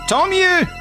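high, loud crazed shout; half-mad cry. A narrator's reading. Widow to nephew, crying out half-mad. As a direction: cry it out like a madwoman. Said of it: "cria la veuve ... à moitié folle".

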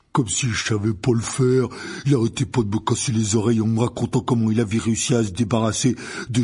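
loud, grumbling giant; indignant, heavy gamekeeper grumble; Hagrid. Acted. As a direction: rant in a big, thick voice, stumbling on words. Narrator voices Hagrid.

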